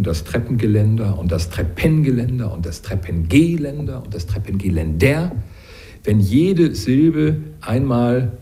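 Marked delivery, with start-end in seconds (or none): 0.0-5.3 each syllable of „Treppengeländer“ stressed in turn; shifting syllable stress. Shown as a demonstration. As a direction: move the stress through „Treppengeländer“ one syllable at a time. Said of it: "Übungen". (jede Silbe von „Treppengeländer“ einmal betont)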